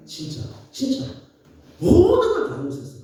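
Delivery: emphatic declaration. Real, not acted. Telling the audience he forgave his grandfather, emphatic burst. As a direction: proclaim it with full conviction.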